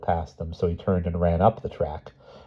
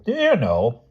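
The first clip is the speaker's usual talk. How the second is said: higher, cosy confiding tone; confiding old aunt; 7 semitones higher, 4 dB louder than usual. Acted. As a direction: share it like a secret. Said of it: "she confided".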